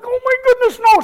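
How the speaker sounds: whispered heartbroken no; dismayed whisper. Retold or imitated. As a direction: hush out the shock. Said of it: "I'm like".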